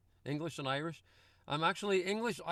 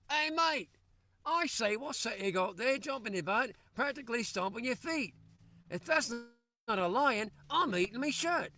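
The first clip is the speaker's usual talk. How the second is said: English sailor; 7 semitones higher than usual. Acted. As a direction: bellow it like a sailor in a pub. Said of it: "The English sailor spoke up".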